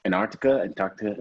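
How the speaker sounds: Antarctica said with a Nigerian lilt; Nigerian accent. Shown as a demonstration. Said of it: "that's my Nigerian accent kicking in".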